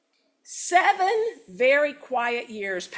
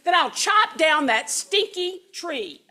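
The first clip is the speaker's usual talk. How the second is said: huffed; 6 semitones higher than usual. Acted. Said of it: "huffed Don Pepe".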